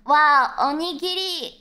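show-off Japanese pronunciation, drawn out; mock-pretentious Japanese accent on the food word; Japanese accent on onigiri. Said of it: "instead of".

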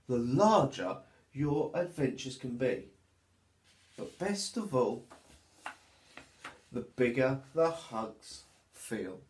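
put-on lively, sing-song reading for little children; storybook narration. A narrator's reading. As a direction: read it like storytime for toddlers.

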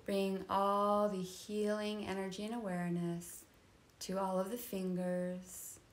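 soft, unhurried body-scan voice; guided meditation. Real, not acted. Yoga teacher leading a nidra body scan, calm guided meditation. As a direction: guide them into rest, part by part.

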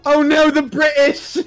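fake-shriek at the British; mock panic.

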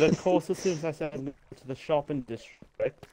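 Welsh lilt, repeated on request; Welsh accent. Shown as a demonstration. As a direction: lay the Welsh accent on again. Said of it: "please repeat what you just said".

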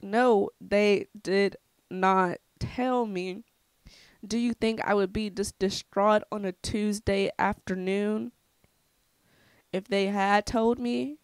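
slow, word-by-word indignant denial; indignant retort. Retold or imitated. Answering cousin who thought they told her, indignant. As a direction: spell it out slowly, exasperated.

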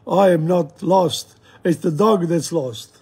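slow, emphatic mock protest; acted indignation, drawn out word by word; a bit angry. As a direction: insist slowly, as a mildly angry Englishman. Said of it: "he gets a bit angry".

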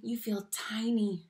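a small, frightened whisper. Acted. Teacher showing children how fear feels, tiny whisper. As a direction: shrink your voice down to nothing.

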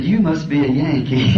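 laughing quote. Retold or imitated. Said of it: "That little lady said".

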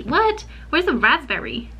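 sudden high surprised what; jolted, disbelieving. Real, not acted. Finding no raspberry tea, a high surprised what. Drink she wants is missing.

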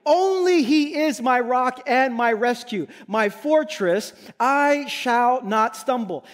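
slow, Only stressed, a touch of tears; emphatic. Acted. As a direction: lean on Only, slow and moved. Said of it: "Again, emphatically".

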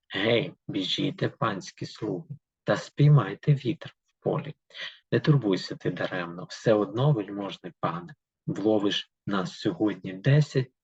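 steady, rhythmic reading of verse; poem reading. Acted. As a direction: read the fairy tale in verse to the class. Reads the poem aloud. (читання вірша вголос)

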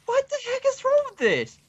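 high loud exasperated shout; frustrated yell. Real, not acted. Attacked again.

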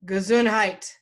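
retold call of a blessing; mild called-out quote. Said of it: "She called out".

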